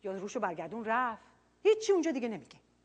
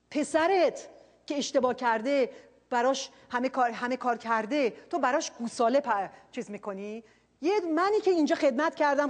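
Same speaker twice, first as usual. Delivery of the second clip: louder resentful complaint to the father; the older brother protesting to his father, loud and resentful; aggrieved elder son; 3 semitones higher, 5 dB louder than usual. Retold or imitated. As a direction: list every sacrifice, bitter and hurt. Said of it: "به پدره میگه".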